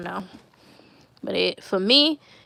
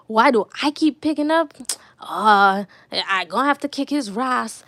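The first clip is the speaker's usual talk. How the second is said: lightly imitated irate Caribbean dad; Caribbean accent. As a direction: go off like a Caribbean father, half-acted. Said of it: "going off with his Caribbean accent".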